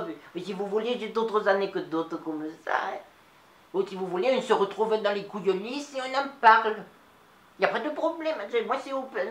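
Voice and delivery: lightly voiced old Nice lady, chatty; a chatty old Niçoise telling a story to the audience; Mado. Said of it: "c'était Mado". (voix légère de vieille Niçoise bavarde)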